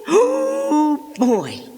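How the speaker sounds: very high, loud delighted cry; thrilled oh. Real, not acted. Girl thrilled at her hits, high delighted cry. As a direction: let it burst out in delight.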